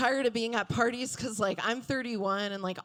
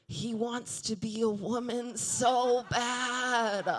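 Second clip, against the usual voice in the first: mock inner voice; 2 semitones higher, slower than usual. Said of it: "all I can think is".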